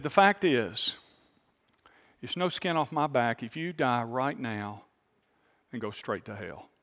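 calm, matter-of-fact and kind; calmly and kindly. Retold or imitated. Pastor calmly tells the mocking man he won't return, kind and matter-of-fact. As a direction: soften it, say it plainly and gently. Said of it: "I said it very calmly and kindly".

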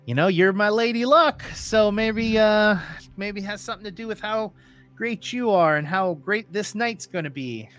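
cocky bravado. Acted. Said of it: "that level of bravado".

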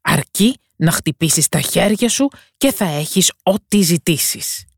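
put-on the monster being kind to the girl; storybook beast, mild and welcoming; generous beast. Beast's voice in the tale.

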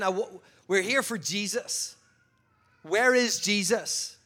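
loud, slowed demand for Jesus; demanding soldier. Acted. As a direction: bark the question like a soldier at the door.

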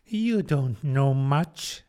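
put-on slow, withering old duchess; drawn-out, scornful duchess voice; frail withering duchess.

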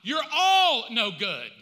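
God's verdict. Pretend. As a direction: thunder it down, slowly at the end. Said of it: "God looks at all of you and goes".

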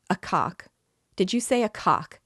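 loud, high incredulous shout. A narrator's reading. Drunk clerk mocks the widow's story, shouting. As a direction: bellow the question in drunken glee. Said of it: "shouted the commissariat clerk".

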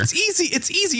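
high teasing sing-song; mock sing-song. Cohost teasing Kyle to press the button, high singsong. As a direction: coax him in a high singsong.

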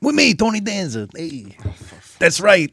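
high-pitched sitcom star impression; Tony Danza. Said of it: "That's a pretty legit Tony Danza".

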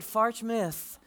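Farch Myth said through a laugh; fond laugh. Retold or imitated. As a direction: repeat Farch Myth, amused. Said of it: "Absolutely right".

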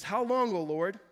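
psalm read at full preaching force; impassioned reading. Acted. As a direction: read the lament out like a plea. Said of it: "he says".

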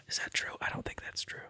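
breathy unvoiced whisper. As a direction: whisper it as a sly aside. Mock-doubting aside to himself.

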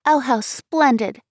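put-on girl thrilled by the plan; delighted cry. A narrator's reading. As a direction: savour it with childish joy. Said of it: "cried the little girl".

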